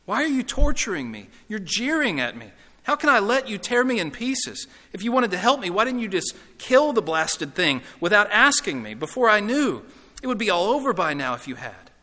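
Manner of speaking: high, loud, anguished accusations; agitated ghost lashing out in complaint; tormented ghost. Acted. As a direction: protest as if being tortured.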